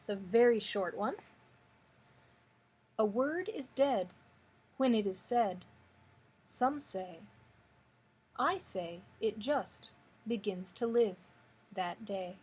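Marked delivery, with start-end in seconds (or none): 3.0-12.3 measured poem recital, pausing after each line; poetry reading. Acted. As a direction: read the verse unhurriedly, letting line endings fall away. Reads a poem aloud.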